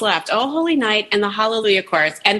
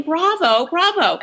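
higher, contained mock cheer; imitated yell; 5 semitones higher, slower than usual. Quoting the woman yelling in church, contained mock yell. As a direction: mimic a cheer without real volume. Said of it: "She is yelling".

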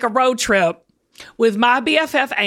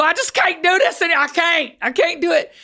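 higher Southern wail of giving up; Southern accent; 4 semitones higher than usual. Acted. Explaining the Southern way of giving up, Southern accent. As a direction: lean into a Southern accent, pitched up. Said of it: "So that's the Southern way".

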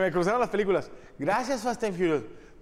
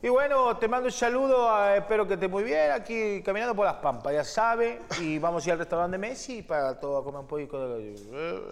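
put-on Argentine accent; 2 semitones higher than usual. Fan asks for an Argentine greeting, mock Argentine accent. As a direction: greet like a porteño strolling the Pampas. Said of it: "salúdame como argentino".

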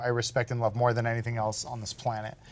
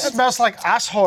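mock German accent; 8 semitones higher, 5 dB louder than usual. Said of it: "do a German accent the rest".

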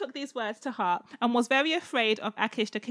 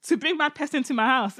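laughing indignation; 3 semitones higher, 4 dB louder than usual. Retold or imitated. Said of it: "And then he said".

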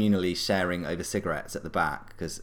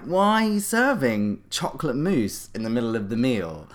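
indignant complaint; 4 semitones higher, 3 dB louder than usual. Retold or imitated. Drunk sister challenging the maitre d' over the dish, mock indignant. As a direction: imitate a tipsy, affronted diner.

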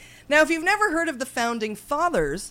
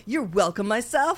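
grand judge; 4 semitones higher than usual. Acted. Judge thanks herself grandly.

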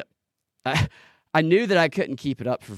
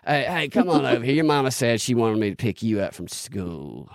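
Southern truck driver; 3 semitones lower than usual. Pretend. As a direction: coax someone over in hammed-up Southern. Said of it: "somebody asking you to get in".

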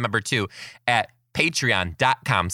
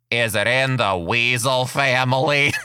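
put-on deep froggy kid voice; 3 dB louder than usual. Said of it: "super deep raspy, like, froggy voice".

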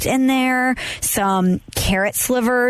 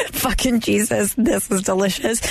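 mock tagline. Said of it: "Should be the tagline for".

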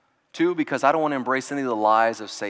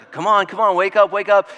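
put-on raised, higher coaxing call to a sleeping child; urgent wake-up call; 5 semitones higher, 7 dB louder than usual. Father rousing his son from a night fit, urgent coaxing. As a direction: rouse him gently but firmly.

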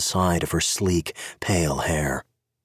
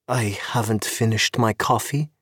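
sweetly; 3 semitones higher than usual. Acted. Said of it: "she said sweetly".

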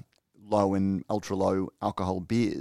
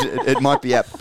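laughing; 3 semitones higher, 6 dB louder than usual. Real, not acted. Laughing while defending his word.

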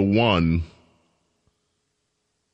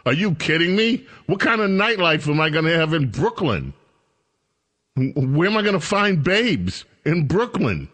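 higher pitched, incredulous mock complaint; mock outraged single man; 6 semitones higher than usual. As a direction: play the single men scoffing at Brooklyn, higher. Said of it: "They're like".

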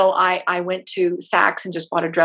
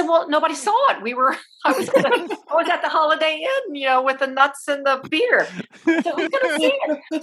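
laughing retort; 8 semitones higher than usual. Retold or imitated. Retelling her reply about reusing the dress.

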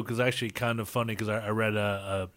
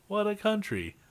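high punchline; 10 semitones higher than usual. Retold or imitated. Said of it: "he remarks".

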